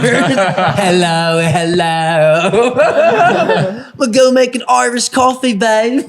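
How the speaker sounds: bad put-on Irish accent, high-pitched; hammed-up not-quite-Irish singer, close to laughing; a rock singer. Pretend rock singer to his wife, mock Irish accent. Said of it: "not really an Irish accent".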